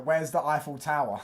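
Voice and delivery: lightly acted lost tourist asking directions; mock clueless tourist. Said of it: "go around London and say".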